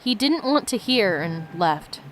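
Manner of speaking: steady read-aloud narration of the game text; reading the story to viewers, lightly lifted. Acted. Streamer reads the game's story to viewers, steady narration. Corrected reread of diary.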